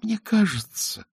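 soft, slow placating wife; quietly. A narrator's reading. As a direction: speak gently not to anger him. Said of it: "сказала она тихо".

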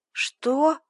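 high, loud stunned "what"; a gasp of shock. Acted. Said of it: "ошарашенно протянула я".

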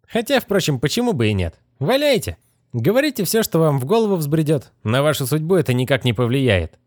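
a hint of a sneering young wizard; smug young wizard. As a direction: toy with her, amused and dry. Narrator voices the young wizard.

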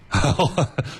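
bright burst of laughter; amused high laugh. Real, not acted. Joke about a singer.

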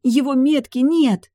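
high, loud excited squeal. A narrator's reading. Heroine squeals to her family, high and loud. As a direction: squeal it out in joy. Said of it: "взвизгнула я".

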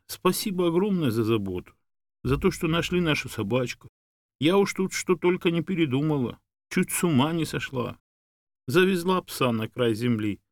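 high, effusive woman's voice; fretful, grateful Tamara. A narrator's reading. Woman confessing her worry for her dog, effusive.

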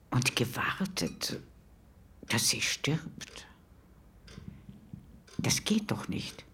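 hushed, slow whisper. Acted. Neighbour whispers her disbelief to the interviewer. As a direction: whisper it like a shocked secret.

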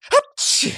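very high loud sneeze; a piercing high sneeze. Acted. Nisse sneezes before scolding the chief. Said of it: "чихнул Ниссе Чих".

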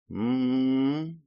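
long closed-mouth musing mm; thoughtful hum. A narrator's reading. Blonde weighs his offer, humming thoughtfully. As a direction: hum while thinking it over. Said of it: "задумавшись, промычала она".

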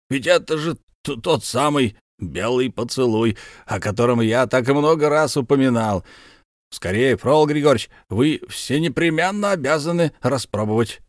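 put-on high, hearty bragging old soldier; boastful count Bekker. Count presents his comrade to his wife, high and proud. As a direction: show off your war comrade.

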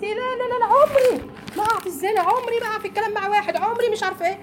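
mock the proud woman who is sure she'd never fall; smug self-assurance. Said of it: "وحاسه ان انت". (تقليد ساخر لامرأة متكبرة بصوت عالٍ)

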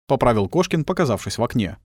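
ordinary delivery, nothing marked

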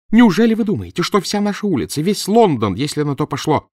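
high, loud shout; крик. A narrator's reading. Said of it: "продолжала она кричать". (жена кричит на профессора)

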